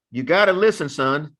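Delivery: lightly voiced grandfather laying down advice; grandfather's talk. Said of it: "That's what he would talk".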